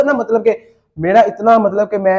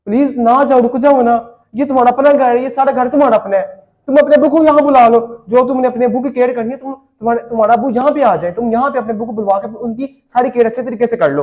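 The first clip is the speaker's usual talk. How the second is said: higher-pitched, insistent begging; retold emotional plea, pitched up; pleading; 5 semitones higher than usual. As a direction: act out a husband begging his wife to stay. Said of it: "मैं ऐसा मतलब उसे रोकने की कोशिश कर रहा हूँ".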